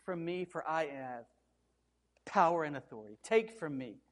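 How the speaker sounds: lightly voiced proud king; mock mighty god. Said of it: "I would say".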